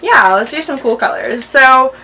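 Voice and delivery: high bubbly excitement; bubbling over with excitement; excited. Real, not acted. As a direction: gush with eager energy. Excited about the paint palette.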